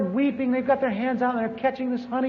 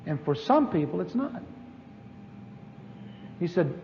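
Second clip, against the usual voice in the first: God's voice; 5 semitones lower, 8 dB quieter than usual. Retold or imitated. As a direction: speak gently as God to John. Voicing God's reply in vision.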